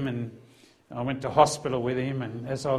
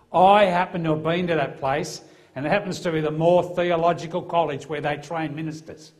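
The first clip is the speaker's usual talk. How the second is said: louder, higher gotcha reveal; triumphant louder reveal; loud confrontation; 3 semitones higher, 6 dB louder than usual. Retold or imitated. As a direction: drop the clanger on him, loud and pointed. Officer drops the clanger on him.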